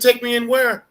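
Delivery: high, loud startled question; playing his younger baffled self; shocked disbelief.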